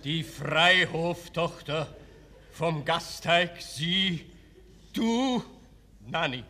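slow, choked stammer; words stuck in the throat. Acted. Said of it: "mit erstickter Stimme".

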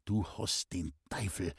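low, soft, angry hiss through the teeth. A narrator's reading. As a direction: spit it out quietly in anger. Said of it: "zischte es ärgerlich durch die Zähne".

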